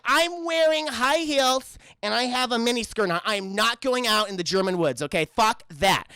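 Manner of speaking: mock bratty Jenny. Mocking Jenny refusing the woods, lightly bratty. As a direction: sulk like a spoiled heroine. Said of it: "And Jenny's just like".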